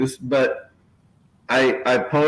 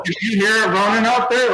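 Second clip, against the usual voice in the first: mock excited host; 8 semitones higher than usual. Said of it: "and I'm like".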